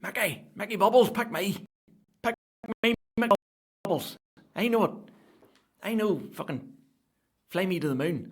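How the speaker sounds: high, loud over-eager begging; desperate fan yelling to be picked. Retold or imitated. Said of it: "one guy".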